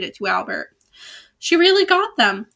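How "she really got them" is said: excited cry. A narrator's reading. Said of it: "cried the books of magic".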